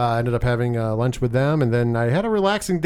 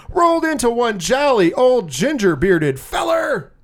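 announcer intro; 3 semitones higher than usual. Acted. Long hype introduction of co-host.

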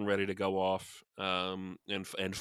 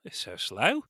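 a much higher, cheeky emu voice; a greedy emu wondering aloud, pitched way up; 13 semitones higher, 6 dB louder than usual. Pretend. Emu mocking humans.

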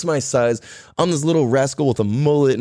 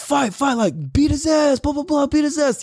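mock crowd yelling; 11 semitones higher than usual. Crowd goading the guy to beat me up, mock yell. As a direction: imitate a crowd chanting for a fight. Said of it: "yelling that to the guy to".

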